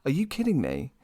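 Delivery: high, loud ranting at the screen, rising as it goes; exasperated rant. Retold or imitated. Ranting at Gamora for rolling her eyes, exasperated. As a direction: scold her like an annoyed fan. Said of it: "I'm like".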